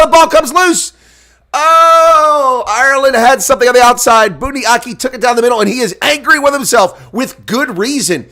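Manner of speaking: pumped-up match commentary; excited play-by-play. Acted. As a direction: ride the action as it happens.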